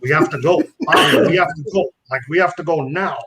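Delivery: mock-serious, insistent plea to leave; retold serious urgency. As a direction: quote a friend urgently pressing to go. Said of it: "And he's all serious".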